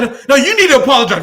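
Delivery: mock Ted demand. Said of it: "He's like".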